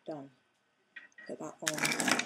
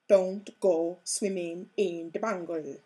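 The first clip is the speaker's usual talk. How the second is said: bad Jamaican accent; 8 dB louder than usual. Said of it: "I know that was really bad Jamaican accent".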